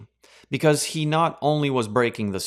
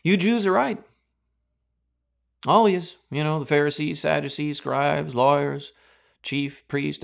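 sarcastic mock surrender. Preacher mocking what Pharisees expected of Jesus, sarcastic. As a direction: ham up a fawning, giving-in plea. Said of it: "Jesus is just gonna be like".

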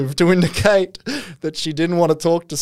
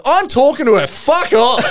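higher, louder hammed-up drunk brushing him off; retelling how the drunk guy told off a colleague; mock drunken snarl; 10 semitones higher, 4 dB louder than usual. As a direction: bark it at the intruder, half laughing. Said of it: "Keenan turns to him and goes".

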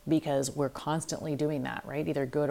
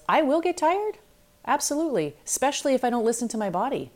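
emphatic affirmation; 8 semitones higher, 4 dB louder, faster than usual. Retold or imitated. Voices own affirmation, emphatic.

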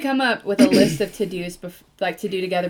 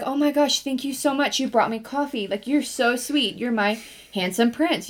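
put-on gushing girlfriend; 4 semitones higher than usual. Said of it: "she's like".

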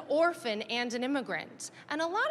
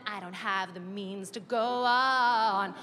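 put-on helpless girl; slower than usual. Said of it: "She goes".

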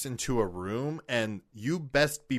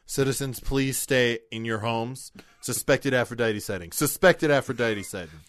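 dystopian announcer. Pretend. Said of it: "issue another pink alert".

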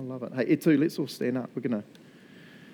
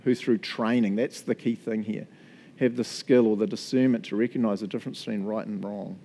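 scripture reading; 5 semitones lower than usual. Shown as a demonstration. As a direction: read it out again, weighing each phrase. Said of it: "I'll read it again".

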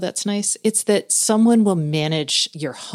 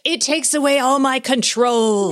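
whiny cook voice; 7 semitones higher, 3 dB louder than usual. Retold or imitated. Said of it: "'cause they're like".

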